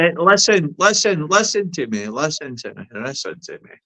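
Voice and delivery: insisting, fading. Real, not acted. Insisting on being heard.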